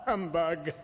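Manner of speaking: a sharp dismissive bah; scoffing. Acted. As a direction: spit out your contempt. Scrooge scoffs at greetings.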